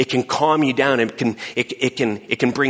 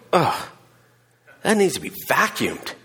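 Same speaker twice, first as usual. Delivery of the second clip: disgusted; 3 semitones higher than usual. Retold or imitated.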